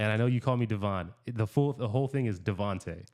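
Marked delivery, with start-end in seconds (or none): 1.2-3.0 "Devontae" said in full, three syllables, stress on the last; setting the record straight on "Devontae" gently; correcting a name. Shown as a demonstration. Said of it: "said each other's names with a little bit of accent".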